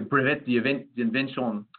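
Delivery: slow, careful French accent. Real, not acted. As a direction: say "brevet d'invention" in a French accent. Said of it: "my French accent is not perfect".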